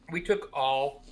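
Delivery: talking around ice; words slurred by a mouthful of ice. Real, not acted. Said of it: "I got ice in my mouth".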